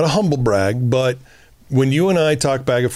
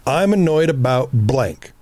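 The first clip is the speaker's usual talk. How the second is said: calm honest statement; slower than usual. Shown as a demonstration. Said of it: "answer the question honestly".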